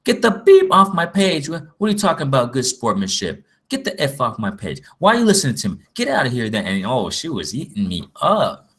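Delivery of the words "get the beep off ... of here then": hammed-up angry yell at the start, fading into a lighter imitation; mock angry rant. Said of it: "She said".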